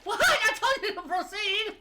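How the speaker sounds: playful shouted command, high and loud; loud mock order. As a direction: bark it like a drill sergeant, laughing. Repeats order playfully, louder.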